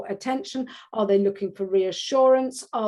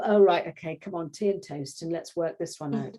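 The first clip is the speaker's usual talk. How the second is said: gentle soothing; 5 semitones lower than usual. Retold or imitated. Parent soothing upset child.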